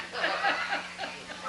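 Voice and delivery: strangled, gurgling honks; drowning moose noises. Acted. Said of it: "you sound like a drowning moose".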